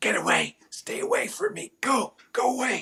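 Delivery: very high, shrill, swooping monster hiss. Narrating a game, voicing a fanged creature hissing at you from the corner: hissing creature voice. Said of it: "it like hisses and it goes".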